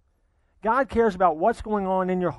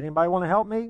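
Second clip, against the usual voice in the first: a higher, more eager call out to everyone; crowd pumped up; 4 semitones higher, much faster than usual. Retold or imitated. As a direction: push the crowd to join in. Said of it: "he kinda got the crowd going".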